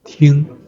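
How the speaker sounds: 听 held high and level; first tone. Shown as a demonstration. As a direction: keep 听 on one high, even pitch. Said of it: "the first tone".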